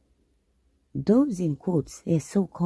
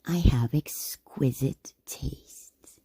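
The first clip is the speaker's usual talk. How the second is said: whispered; slower than usual. Acted. Savoring her own refinement.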